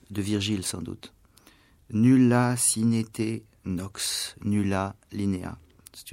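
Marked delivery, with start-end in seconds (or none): 1.9-5.6 solemn Latin recitation. Shown as a demonstration. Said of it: "encore une phrase latine".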